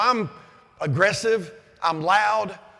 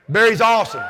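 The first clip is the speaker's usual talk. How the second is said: shouting praise; 3 semitones higher, 8 dB louder than usual. Real, not acted. Speaker hyping Barry to the crowd, shouting. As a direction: cheer him like a fan.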